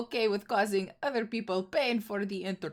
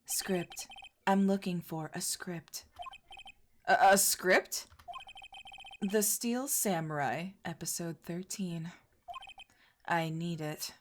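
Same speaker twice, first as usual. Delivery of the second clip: lightly voiced, softer woman fixated on a script; distracted script-obsessed woman; 5 dB quieter, slower than usual. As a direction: mumble it, lost in her own world. Game character voiced by streamer.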